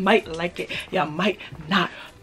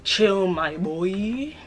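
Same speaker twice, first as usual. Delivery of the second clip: slow, unbothered chill; laid-back cool; much slower than usual. Retold or imitated. Answering guys asking how he copped the hat, slow and cool. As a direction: drag it out, too cool to care. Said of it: "And I'm like".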